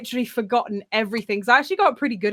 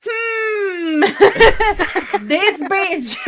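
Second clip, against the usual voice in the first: laughing man's voice; 8 semitones higher, 4 dB louder, much slower than usual. Retold or imitated. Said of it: "a man is sitting there like".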